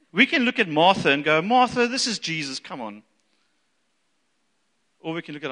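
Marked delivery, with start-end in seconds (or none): 1.4-3.0 high, loud remonstrance dropping away; chiding. Acted. Preacher imagines scolding Martha over Jesus, chiding.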